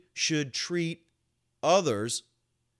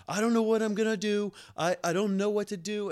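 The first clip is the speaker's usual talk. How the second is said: mock panicked mom; 8 semitones higher, 3 dB louder than usual. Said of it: "And she's like".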